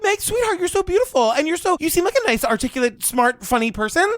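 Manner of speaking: high, tender pep talk; sweet nothings. Retold or imitated. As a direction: coo it like to a friend. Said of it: "you look at Meg and you're like".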